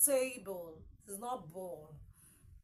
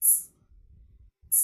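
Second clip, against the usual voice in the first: isolated t sound; 8 dB quieter than usual. Shown as a demonstration. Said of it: "We have the sound what?".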